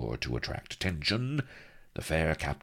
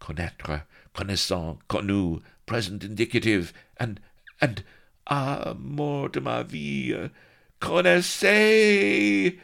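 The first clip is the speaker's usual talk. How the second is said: high, strange voice conjugating French verbs; high babbling pirate drilling French verbs; 9 semitones higher, 4 dB louder than usual. A narrator's reading. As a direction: babble the verbs, rising into a long high cry. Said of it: "a voice that babbled".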